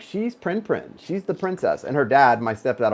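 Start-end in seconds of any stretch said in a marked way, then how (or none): 0.0-1.8 cooing nickname. Retold or imitated. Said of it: "it was like".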